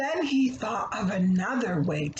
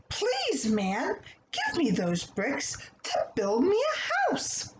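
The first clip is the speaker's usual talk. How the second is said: polite little pig; 5 semitones higher than usual. Acted. Pig asks man for bricks.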